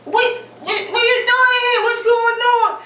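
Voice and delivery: high, excited greeting; excited squeal of surprise; surprised excitement. Retold or imitated. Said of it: "That's Auntie".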